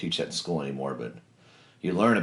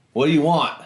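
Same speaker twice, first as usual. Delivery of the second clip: louder, higher barked question; a hammed-up mess sergeant demanding; mock sergeant bark; 7 semitones higher, 6 dB louder than usual. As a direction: bark it at the new guy in line. Mess sergeant confronting him in line.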